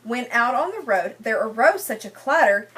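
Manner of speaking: sing-song read-aloud rhyme for a class; lilting picture-book reading voice; story reading to children. Acted. Teacher reads rhyming picture book.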